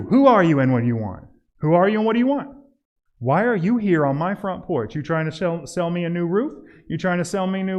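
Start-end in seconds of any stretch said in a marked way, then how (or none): 0.0-1.2 demanding homeowner. Acted. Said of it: "I got two". 1.6-5.0 demanding homeowner. Acted. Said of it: "I got two".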